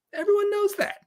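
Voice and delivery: mock certainty. Sarcastic rant peak.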